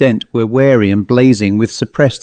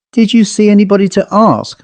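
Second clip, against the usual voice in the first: thinly concealed anxiety; 8 semitones higher than usual. A narrator's reading. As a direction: ask as if hiding worry, but it slips out. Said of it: "with thinly concealed anxiety".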